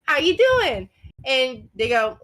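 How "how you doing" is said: high, sweet customer-service voice; sweet young phone agent. Retold or imitated. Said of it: "She sounds very sweet and very kind and very young".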